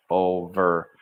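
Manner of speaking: over said fully on its own, finished before view; over held. Shown as a demonstration. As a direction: sound out over, let it finish. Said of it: "sounding out".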